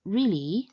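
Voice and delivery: REALLY lifting upwards as if surprised; REALLY with a surprised rise at the end; rising questioning tone. Shown as a demonstration. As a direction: say REALLY as a question, pitch climbing. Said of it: "tone used when expressing surprise".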